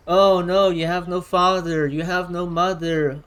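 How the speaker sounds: sneering schoolyard taunt; mocking taunt. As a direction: jeer at them like a bully. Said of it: "the type to go around saying that".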